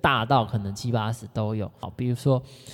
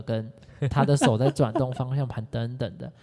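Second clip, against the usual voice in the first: ordinary talk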